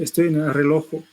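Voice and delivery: "relojo" with an extra o at the end; inserted final o. Retold or imitated. Teacher quoting the recording's "relojo". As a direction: stretch out "relojo" with the added vowel.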